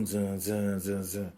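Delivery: hummed bass beat imitation; imitating the beat. Shown as a demonstration. Describing the album's funk, hummed beat. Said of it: "killing that shit with the, uh".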